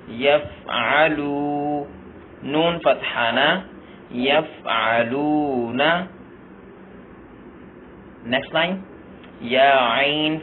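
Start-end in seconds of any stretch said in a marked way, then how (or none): 0.1-1.8 slow drill. Shown as a demonstration. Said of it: "teacher drills word slowly". 4.1-5.9 slow drill. Shown as a demonstration. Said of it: "teacher drills word slowly".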